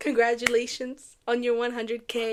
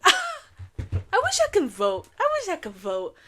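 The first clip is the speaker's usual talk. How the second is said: laughing; 9 semitones higher, 3 dB louder than usual. Real, not acted. Laughing wish.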